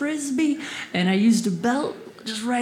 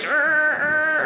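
car noise; 4 semitones higher than usual. Acted. Imitates car while parallel parking.

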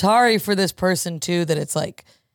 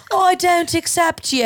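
mock disapproving relative; 9 semitones higher than usual. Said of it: "someone being like".

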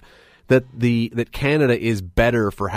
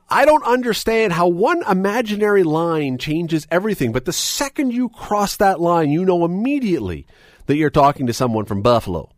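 Buffalo accent; 5 semitones higher than usual. Shown as a demonstration. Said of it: "a really terrible attempt at doing the Buffalo".

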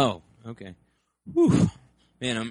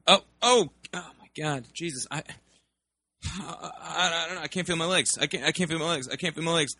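higher, hammed-up panicked son; mock panic; 6 semitones higher than usual. Son pleads with his father after the car flips, in mock panic. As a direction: fake crash-victim panic.

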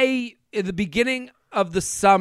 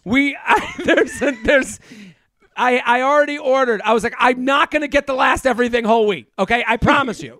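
yelling; 4 semitones higher than usual. Retold or imitated. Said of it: "I'm yelling at them".

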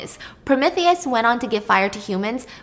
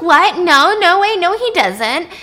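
loud, high-pitched acted disbelief; shocked denial; 8 semitones higher, 8 dB louder, slower than usual. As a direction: protest in disbelief, voice jumping up. Circe refuses to believe it.

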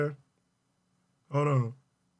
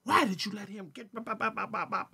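hushed, softer mock of an angry mom; imitating mom; 9 dB quieter than usual. Son retelling his mad mom, softly whispered. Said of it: "She was like".

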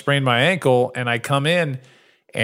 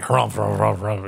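mock harumphing; 4 semitones lower, much faster than usual. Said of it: "They're all like".

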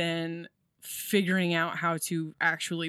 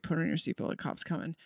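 soft, understated inner voice; small quiet voice; 6 dB quieter, faster than usual. Retold or imitated. Speaker imitates the small voice giving a warning, quiet. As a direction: drop it to a quiet inner warning, fading softer. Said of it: "it's so quiet".

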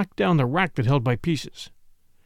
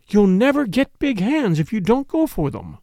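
urging; 6 semitones higher than usual. Acted. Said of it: "urged Caroline".

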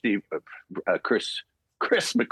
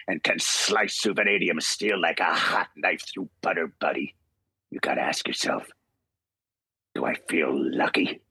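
low, cool, understated menace; Eastwood-style Wolverine; 4 semitones lower than usual. Acted. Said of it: "this is my favorite line".

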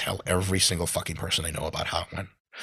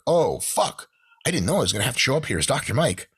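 oh no; 4 semitones higher than usual. Retold or imitated. Panicked realization at wedding.

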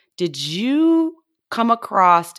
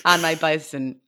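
ordinary talk, nothing marked

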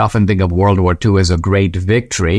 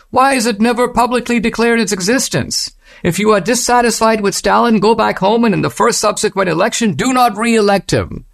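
much higher, mocking Western official voice; mock Western accent; 11 semitones higher than usual. Solzhenitsyn mocking Western ignorance, high mock Western accent. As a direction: lampoon the naive Westerner in a put-on Western accent, pitched way up. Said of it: "Solzhenitsyn kind of putting on his Western accent".

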